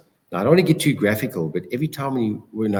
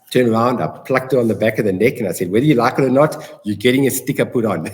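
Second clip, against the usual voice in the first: louder, playful command to his mom; mock bossy order; 5 dB louder, faster than usual. Son jokingly ordering his mom to turn around, louder playful command. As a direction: boss her around with a grin, loudly.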